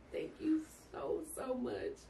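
high, slow, teary thank you; tearful thanks. Retold or imitated. To the nurse who found a doctor, tearful gratitude. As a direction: choke out thanks through tears. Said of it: "I was crying".

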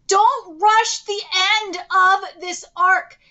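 slow, emphatic plea; pleading. Real, not acted. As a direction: draw the words out, imploring. Begging the studio not to rush.

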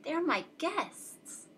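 high, soft, slow wail; storybook sob, drawn out; sobbing. A narrator's reading. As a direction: plead helplessly, half sobbing. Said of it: "sobbed poor Thidwick".

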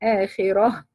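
وبالآخرة with a short breathless break before the hamza; وبالآخرة with sakt; sakt pause. Shown as a demonstration. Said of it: "don't breathe for two seconds".

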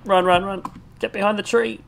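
panicked high shouts; frantic, running for cover; being chased. Real, not acted. Fleeing an enemy player.

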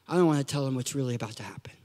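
low, quick hushed aside; confiding whisper. Acted. Parent confides in God about bad news, confiding whisper. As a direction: whisper it so the kids can't hear.

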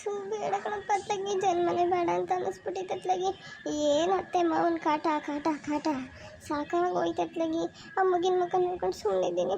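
acted weepy grumbling, slightly subdued; tearful lament. Wife worn down by her in-laws' harassment, tearful lament. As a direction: lament to yourself, close to tears. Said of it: "ಯಾಕೆ ಅಳ್ತೀಯಾ".

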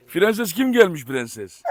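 very slow drawn-out doting coo; pet talk. Real, not acted. Greeting dog sweetly.

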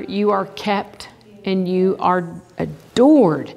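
slow, gentle reassurance; tender voice of God. Acted. Preacher voicing God whispering love to his child, slow and tender. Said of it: "he whispers it in our ears".

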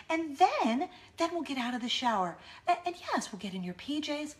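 lightly put-on sweet, over-composed mom voice; eerily collected, with lilting jumps in pitch; crazy calm mom. Mom getting her daughters through the shower, maniacally calm. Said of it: "Very calm, cool, collected".

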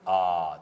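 「あー」を大きくはっきり伸ばして; 口を大きく開けて伸ばす; 母音の見本. Shown as a demonstration. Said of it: "って音とか". (大きめに伸ばした「あー」)

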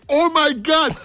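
high, loud startled cry of Oh my God; sudden shrill English outburst of alarm; shocked exclamation. Retold or imitated. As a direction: yelp it out as if glass just shattered. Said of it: "σπάει ο άλλος στο τζαμάκι και λέει".

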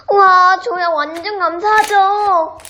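bright, high sing-song delight; sing-song thanks. Acted. Thrilled at a donation offer.

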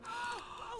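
high, quiet gasp; sharp intake of alarm; shocked gasp. Real, not acted. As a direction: gasp in dismay. Shocked while racing to save character.

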